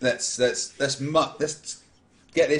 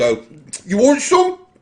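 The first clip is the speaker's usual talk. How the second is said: very high, loud talking through half-chewed food; 10 semitones higher, 8 dB louder than usual. Offering Elfar a rat during the game, talking with mouth half full. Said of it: "with mouth half full".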